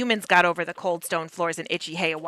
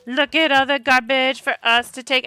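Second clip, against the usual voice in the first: gleeful; 4 semitones higher, 4 dB louder than usual. Pretend. Gleeful at garbage to collect.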